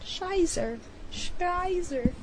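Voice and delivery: mock German voice. Silly made-up German-ish voice.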